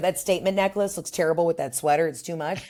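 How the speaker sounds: ordinary talk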